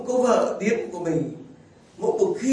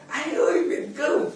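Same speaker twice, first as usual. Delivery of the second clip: high call broken by laughter; laughing mother's call; 10 semitones higher than usual. Retold or imitated. The priest retelling his mother's call, laughing. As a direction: giggle through the mother's shy call. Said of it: "mẹ tôi mới gọi".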